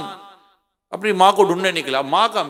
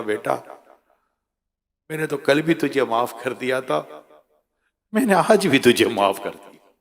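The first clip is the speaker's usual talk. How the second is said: softer, lower, tender forgiveness; soft-hearted mother; 4 semitones lower than usual. Acted. Mother forgives her kneeling son, tender and low. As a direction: forgive him gently, like a mother. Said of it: "नरम दिल के साथ".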